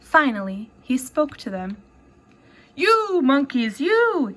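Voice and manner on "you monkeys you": scolding peddler. Acted. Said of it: "This made the peddler angry".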